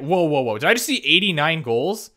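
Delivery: can't believe the stat; stunned disbelief. Real, not acted. Stunned by a player's goal total.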